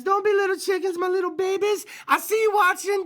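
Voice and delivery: high cooing voice, like talking to babies; cooing baby talk. Acted. Host teasing shy viewers to call in, in high baby talk.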